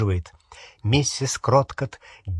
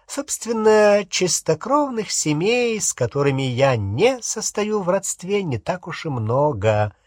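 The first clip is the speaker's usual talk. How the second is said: self-satisfied boasting; 5 semitones higher than usual. Acted. Umbridge boasting of pure-blood families, self-satisfied.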